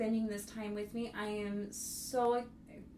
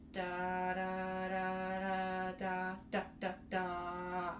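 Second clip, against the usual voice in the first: spaced staccato syllables; much slower than usual. Shown as a demonstration. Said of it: "is space in between".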